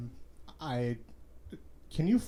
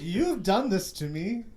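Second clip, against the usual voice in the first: Obi-Wan impression; 4 dB louder than usual. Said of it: "like a weird Ewan McGregor".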